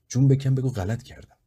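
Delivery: put-on high, loud furious yell at the boy; angry yell. A narrator's reading. Mother yelling at her beaten son, loud and furious. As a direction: yell it down at him in a rage. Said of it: "با عصبانیت سرم داد کشید".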